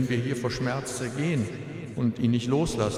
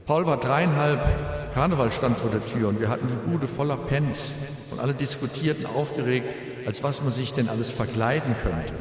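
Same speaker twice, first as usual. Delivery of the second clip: grieving father's eulogy, composed; at a graveside. Real, not acted. Eulogy for son at funeral.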